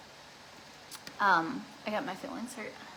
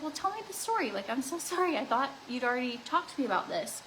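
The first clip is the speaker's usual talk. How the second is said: mock husband apology; 3 semitones higher than usual. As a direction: play the husband backpedalling, pitched up. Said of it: "And he was like".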